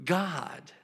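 very slow, drawn-out question; solemn admonishment. Acted. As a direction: stretch out each word, weighing it. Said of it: "so from this place, he goes".

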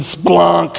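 "splunk" held long and slow; drawn-out funny word. Shown as a demonstration. Preacher enjoying funny Greek, "splunk" drawn out. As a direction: relish the sound of "splunk".

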